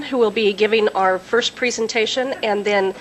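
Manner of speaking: soft, fading introduction; softly spoken, hard to catch; too quiet to hear. Real, not acted. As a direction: let the voice drop away from the room. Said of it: "We can't hear you".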